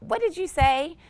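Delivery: loud, high outraged parent yell; an angry parent snapping back. Retold or imitated. Parent yelling at a back-talking child, outraged loud yell. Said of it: "adopt an outraged look and yell out".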